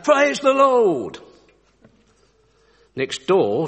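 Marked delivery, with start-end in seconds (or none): 0.0-1.2 high, drawn-out jubilant shout. Acted. Old lady proclaiming her faith from her porch, shouting. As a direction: proclaim it loudly, stretching each word. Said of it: "on her front porch and shout".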